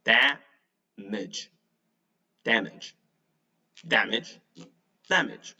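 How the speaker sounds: "Damage" as DAM-idge, open A, falling away; practice repetition. Shown as a demonstration. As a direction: repeat "Damage" for a learner, stressed first syllable, pausing between. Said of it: "let's practice that again".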